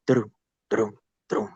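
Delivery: soft mouth-made hoofbeat sounds; imitated hoofbeats. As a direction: mimic horses coming up behind you, quietly. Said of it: "the best as I can describe it".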